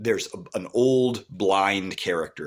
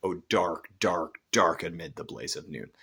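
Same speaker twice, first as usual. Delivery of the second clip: "dark, dark, dark" each stressed equally, set apart; spondee stress. Shown as a demonstration. Teacher demonstrates the spondee, "dark, dark, dark" in equal heavy beats. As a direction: land separately on every "dark", then run on through "amid the blaze of noon". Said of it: "a stressed, stressed pattern".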